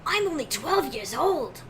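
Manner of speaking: put-on slow, lightly boyish anime voice; a hint of a young anime hero. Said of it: "You do that far better than me".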